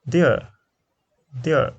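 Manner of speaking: "there" said slowly as "dea", a gliding diphthong; teacher's model word. Shown as a demonstration. Teacher shows Nepali students how to say "there". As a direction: model "there" for the class with a clear "ea" glide. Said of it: "this is called pronounce there".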